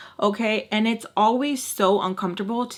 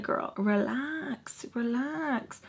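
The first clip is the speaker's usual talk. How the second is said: calming; 3 semitones higher, 7 dB quieter, much slower than usual. Retold or imitated. Acting out calming the screaming woman.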